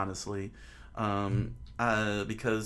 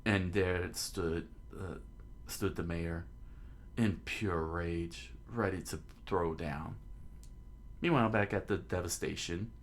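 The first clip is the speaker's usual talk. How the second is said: measured narrator reading aloud; understated storyteller; story narration; 3 semitones lower, 6 dB quieter, slower than usual. A narrator's reading. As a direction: narrate the scene evenly.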